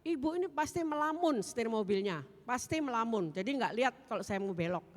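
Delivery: imitating an accusing driver; angry blaming. Driver blames the woman for daydreaming, angrily. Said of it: "dia tetap marah-marah saya dan menyalahi saya".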